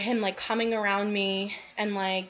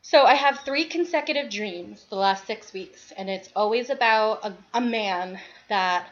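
out of breath from the stairs; short of breath, pausing between phrases; shallow breathing. Real, not acted. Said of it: "Sorry, I'm out of breath".

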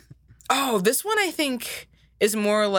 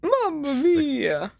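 slow Italian Mario; 5 semitones higher, much slower than usual. Retold or imitated. Repeats Mario line.

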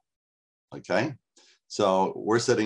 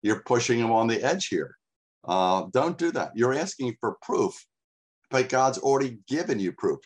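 Moses rebuking; 4 semitones higher than usual. Retold or imitated. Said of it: "And Moses says".

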